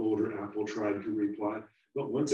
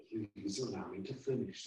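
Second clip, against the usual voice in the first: stern; 5 dB quieter than usual. Acted. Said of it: "the older apple said sternly".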